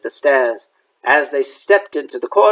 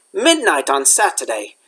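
hoarse. Acted. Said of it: "he said in a hoarse voice".

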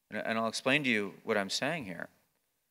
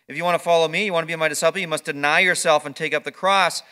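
louder preaching run; preaching at full force; 3 semitones higher, 8 dB louder than usual. Acted. Pastor listing Jesus's calls, louder. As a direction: proclaim it, louder.

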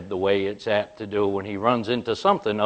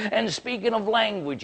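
keeps ranting; 10 semitones higher than usual. Retold or imitated. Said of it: "he was all upset".

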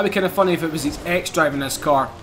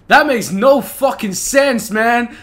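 slowed, louder with a laugh; laughing disbelief; 4 semitones higher, 5 dB louder, slower than usual. Real, not acted. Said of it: "What the fuck did he just say?".

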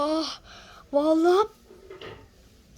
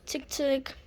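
whisper; 2 semitones lower, 5 dB quieter than usual. Pretend. Knocking softly on grandma's door.

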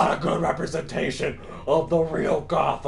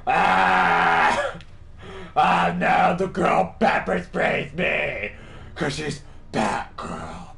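loud hammed-up wailing; mock panicked victim; 5 dB louder, slower than usual. Player mimicking the pepper-sprayed guy, mock panicked yell. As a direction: yelp as if comically helpless. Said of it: "Guy's like".

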